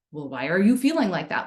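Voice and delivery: pressing, worried question; urgent problem-solving. Retold or imitated. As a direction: ask it like a crisis to solve. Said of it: "Like it's a crisis to solve".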